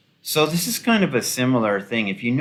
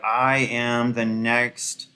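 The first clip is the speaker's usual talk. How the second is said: lightly mocking, very slow grand claim; mock self-important founder; much slower than usual. Commentator mimicking a disgraced tech founder, mildly self-important. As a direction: draw out every word like a would-be visionary. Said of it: "She was like".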